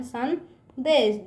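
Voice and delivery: संदेश stretched very slowly, syllable by syllable; teacher stretches संदेश slowly; slow sounding out. Shown as a demonstration. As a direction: draw out संदेश for the class. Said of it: "किस तरह से लिखेंगे इसको?".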